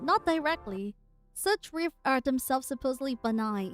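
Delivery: measured dramatic reading; story narration. Acted. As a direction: read the lines like a narrator. Reading the comic aloud.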